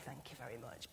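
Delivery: very soft, low mock politeness; timid polite decline. Preacher imitates her shy self at the back, soft and low. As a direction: shrink back and murmur it.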